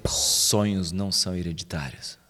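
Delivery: slow, low, weighty delivery of a motto; dramatic catchphrase. Acted. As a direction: intone it like a movie trailer line. Announcing the episode's impact phrase.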